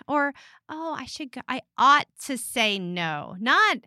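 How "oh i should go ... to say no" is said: playing coy. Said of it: "has to play coy".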